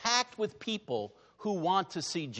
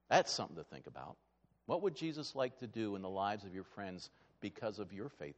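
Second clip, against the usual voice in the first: reflective; 8 semitones lower, 10 dB quieter than usual. Real, not acted. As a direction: invite them to reflect gently. Reflective invitation.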